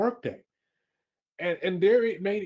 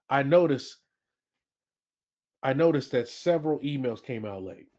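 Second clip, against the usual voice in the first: observational. Shown as a demonstration. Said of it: "sounds more like an observation".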